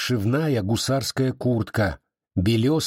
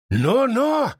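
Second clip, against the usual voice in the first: a much higher, louder "Но-но!"; threatening cry; 13 semitones higher, 3 dB louder than usual. A narrator's reading. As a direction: shout him down before he fires. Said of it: "угрожающе вскрикнул урядник".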